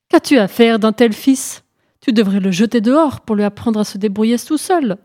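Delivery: loud, reproachful telling-off; scolding. Acted. Animals at the funeral reproach the poor mother, scolding.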